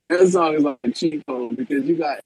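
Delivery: choppy robotic call audio; breaking up on a bad line. Real, not acted. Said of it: "is he sounding like a robot".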